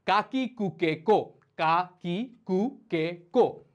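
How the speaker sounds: কা কি কু কে কো, each on its own beat; syllable drill. Shown as a demonstration. Teacher moves to the k sounds, reciting syllable by syllable. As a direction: model কা, কি, কু, কে, কো for repeating. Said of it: "এরপরে ক সাউন্ডে চলে যাচ্ছে".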